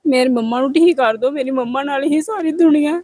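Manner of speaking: tearful plea, pitch climbing as it goes; real crying. Real, not acted. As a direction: break down pleading for your mother. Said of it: "ਚੱਲ ਤੂੰ ਰੋ ਨਾ".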